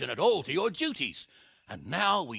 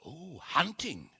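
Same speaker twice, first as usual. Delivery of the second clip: sarcastic slow; 5 dB quieter, slower than usual. Acted. Hanush mocks young lord's plan.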